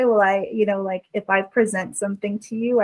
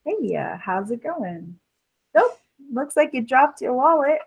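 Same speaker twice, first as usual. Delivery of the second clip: put-on wholesome 1950s kid; 4 semitones higher than usual. Con artist voices a character.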